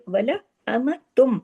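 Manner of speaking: वला अमतुम with long nasal meem; nasal idgham. Shown as a demonstration. Teacher showing students the merged meem. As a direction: hold the meem in अमतुम through the nose. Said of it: "यहाँ पे बड़ा गुन्ना होगा".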